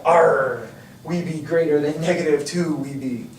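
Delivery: lightly voiced pirate; a hint of a pirate growl. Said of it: "stop with that pirate voice now".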